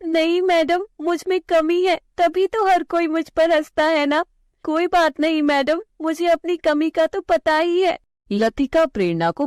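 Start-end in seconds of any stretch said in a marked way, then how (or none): 0.1-8.0 put-on high, pleading child voice; hurt little girl. Girl asking her teacher if she's too dark, high and pleading. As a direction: ask the teacher through hurt.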